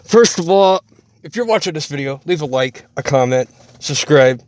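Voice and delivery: talking around a cigarette; cigarette in mouth. Real, not acted. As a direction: lips holding a cigarette. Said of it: "Sorry, I have a cigarette in my mouth".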